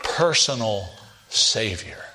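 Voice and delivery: "personal Savior", each word set apart with a pause, both falling low; deliberate phrase. Shown as a demonstration. Preacher spelling out the phrase for listeners, words separated and falling. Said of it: "we often say it this way".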